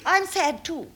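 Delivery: clipped thirties stage drama; overwrought, poignant period acting; melodramatic Coward style. Parody of Coward drama excerpt.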